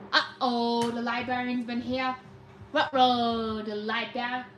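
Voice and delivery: low, hushed uh-oh; mock dread. Streamer warning the room a librarian is here, mock dread. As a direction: play it low, as if warning of trouble.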